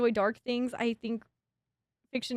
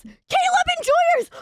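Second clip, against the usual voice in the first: Caleb Enjoyers stretched slow, higher and loud; repeating the fans' name as a slow, high rally cry; drawn-out shout; 7 dB louder, slower than usual. Real, not acted. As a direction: hold the cheer out long.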